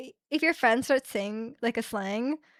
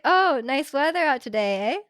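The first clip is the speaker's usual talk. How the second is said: mock Canadian eh; 3 semitones higher, 4 dB louder than usual. Shown as a demonstration. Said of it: "I guess saying "eh" is very Canadian".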